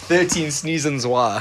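laughing. Real, not acted. Laughing at friend's sneezes.

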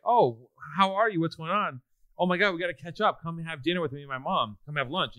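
retold bubbly invitation; gushing greeting. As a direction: gush like bumping into an old friend. Old girlfriend's gushing surprise greeting.

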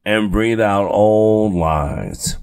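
put-on slow coaching voice, "out old lies" drawn out; guided breathing cue. Shown as a demonstration. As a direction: lead the class through the breath slowly. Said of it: "one of my favorite things to say to people is".

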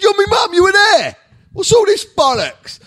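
high, loud incredulous yell; outraged squawk at his mum; indignant shout. Retold or imitated. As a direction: protest at the top of your voice. Acting out his outburst at mum.

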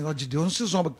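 low, ominous mock warning; threatening tone. Comedian imitates religious people's warning, low threatening tone. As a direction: drop the pitch as if threatening. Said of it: "falam isso em tom de ameaça".

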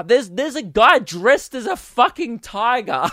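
high, laughing disbelief; barely holding in real laughter; cracking up. Real, not acted. Telling of a guy dressed as tiger, cracking up.

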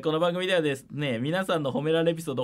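even, clear host read; radio segment read; radio announcement read. Acted. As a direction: announce the listener mail call. Reads the show's mail call.

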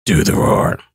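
put-on low, hushed kid's demand; little kid voice. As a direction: mimic the stubborn kid from Shrek. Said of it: "And he goes up to Shrek and he says".

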